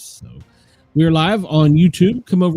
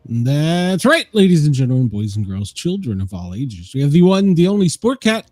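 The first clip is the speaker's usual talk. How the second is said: ringmaster. Acted. Radio host opening show intro.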